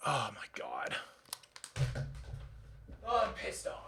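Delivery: breathless whisper under his breath; real whispered dismay; whispered disbelief. Real, not acted. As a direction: mutter it in stunned defeat. Stunned after build loss.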